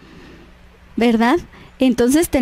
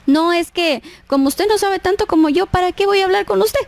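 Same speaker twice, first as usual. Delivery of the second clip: higher, mock condescension; looking down; 6 semitones higher than usual. Church member brushing off a new convert, condescending. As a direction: dismiss the newcomer, rising in pitch. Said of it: "estamos menospreciando a los demás".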